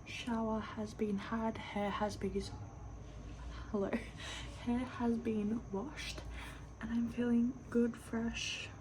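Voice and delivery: hushed late-night whisper. Real, not acted. Kids asleep at night.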